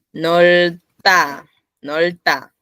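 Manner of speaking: nolta with a hard, unaspirated Spanish T; tense T. Shown as a demonstration. Teacher showing students the tensed consonant, nolta with tense T. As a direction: say nolta slowly in two crisp syllables, T tensed. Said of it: "una consonante que se vuelve tensa".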